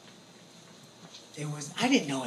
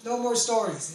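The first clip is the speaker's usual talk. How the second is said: loud, high no more stories; firm refusal; 5 semitones higher, 6 dB louder, slower than usual. Retold or imitated. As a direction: shut the storytelling down firmly. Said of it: "I said".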